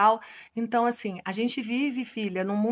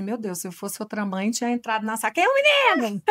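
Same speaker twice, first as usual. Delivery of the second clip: mock outraged mother; 4 dB louder than usual. Teacher imagining an angry mother, mock outraged shout. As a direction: play the mother ready to storm the classroom. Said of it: "Acho que ela falou assim".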